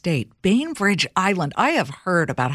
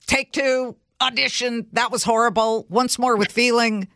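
imitating brisk set calls, pitched up; lightly voiced director calling out takes; film crew calls; 5 semitones higher than usual. Host mimics film crew on a set, mock director calls. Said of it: "people with big lights in, in their f-, hands saying".

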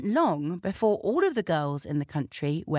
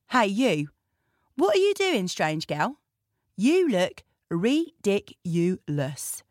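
haughty princess. Acted. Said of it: "shouted the princess".

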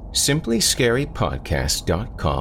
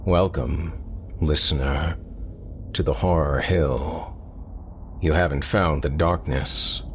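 dark, measured horror-podcast intro; ominous horror host. Acted. Horror host welcoming listeners to the show, ominous.

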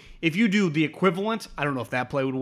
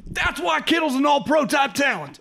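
mock gushing praise; 11 semitones higher than usual. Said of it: "we would have been like".

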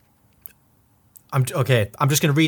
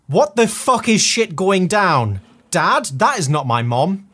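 shocked outburst; 6 semitones higher than usual. Acted. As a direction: read it like a horrified kid. Arthur shocked in fanfic.

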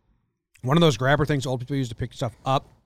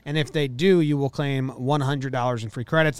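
upbeat sponsor read. Acted. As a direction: read it like a radio ad.

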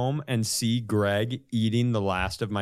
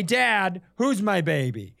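put-on high cooing baby talk; 5 semitones higher, slower than usual. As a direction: coo it sweetly, slowly.

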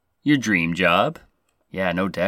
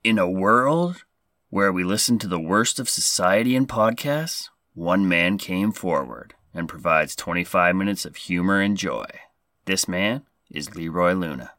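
movie announcer voice. Acted. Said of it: "Best movie announcer voice".

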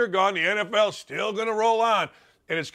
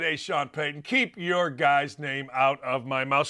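quoting Aaron Rodgers; 7 semitones lower than usual. Retold or imitated. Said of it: "Aaron Rodgers said".

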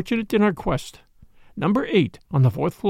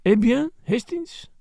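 put-on sly French-accented needling, drawn out and higher; 7 semitones higher, slower than usual. A narrator's reading. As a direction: lift the question slyly, in a French accent. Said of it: "my friend demanded slyly".

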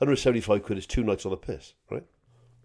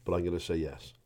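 whispering; 6 semitones lower, 9 dB quieter than usual. Real, not acted. Admitting embarrassment.

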